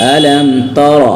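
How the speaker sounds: full, dark "ro" sound in तर; heavy R. Shown as a demonstration. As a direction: recite अलम तर with a thick, rounded R in तर. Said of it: "रा मोटा". (तर में रा मोटा)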